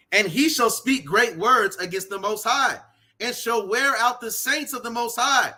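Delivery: emphatic preacher reading out a verse; firm, rhythmic scripture reading; scripture declamation. Acted. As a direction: proclaim the verse with punched stresses. Reads scripture aloud forcefully.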